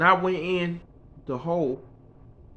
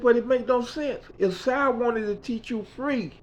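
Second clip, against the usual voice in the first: Mickey's voice; 10 semitones higher, 4 dB louder than usual. Retold or imitated. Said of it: "She said".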